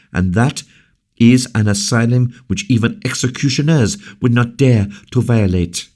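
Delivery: high, fast impassioned speech; passionate defense. Acted. La Valliere to Colbert, high passionate defense. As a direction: defend the guest with fire. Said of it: "passionate energy of her voice".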